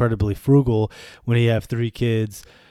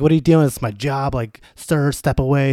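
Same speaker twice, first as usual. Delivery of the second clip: higher, louder scolding cashier; mock grocery lady; 3 semitones higher, 4 dB louder than usual. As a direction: shoo him off like an indignant store clerk. Grocery lady scolding his dad.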